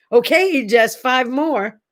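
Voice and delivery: hint of a wheedling personal trainer. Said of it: "you say".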